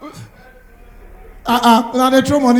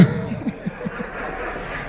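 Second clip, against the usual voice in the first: crowd laughter; 12 dB quieter than usual. Real, not acted. Audience laughs at stand-up joke.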